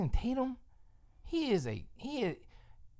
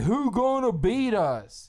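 slow, laughing mock brag; mocking the rival fans' brag; mock boastful fan; 3 semitones higher, 4 dB louder, slower than usual. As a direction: taunt like a cocky rival fan.

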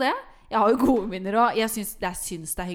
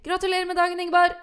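higher, mock-hearty congratulation; birthday chorus greeting; 9 semitones higher, 5 dB louder, faster than usual. Guests greeting the birthday girl in unison, mock-cheery. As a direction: imitate guests calling out happy birthday.

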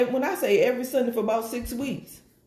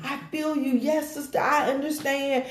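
mock sympathy; 4 semitones higher than usual. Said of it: "And then I just was like".

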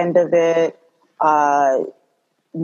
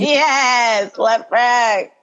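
delighted yes through a laugh, pitched up; laughing agreement; 5 semitones higher, much slower than usual. Real, not acted. Guest hears the host name Left Rack, laughing in recognition. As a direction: cheer it while laughing. Delighted reaction to hometown mention.

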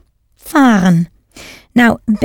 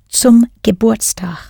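whispered. Shown as a demonstration. Teacher whispering the German birthday greeting to learners, whispered. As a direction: breathe the words out with no voice.

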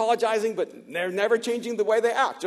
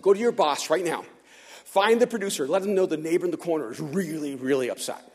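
stern retold demand; 5 semitones lower than usual. Resident sending the guard to his boss, sternly insistent. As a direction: lay down the order, letting "really upset" drop low.

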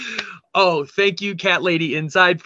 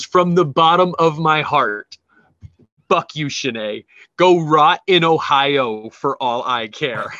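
mock angry rant; 3 dB louder, slower than usual. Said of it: "she was yelling at Shanae".

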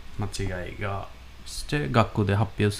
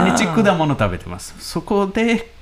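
student reciting; 11 semitones higher, 5 dB louder than usual. Retold or imitated. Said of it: "え、可愛い".

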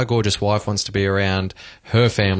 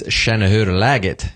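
Swedish greeting. Shown as a demonstration. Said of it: "In Sweden ... it is".

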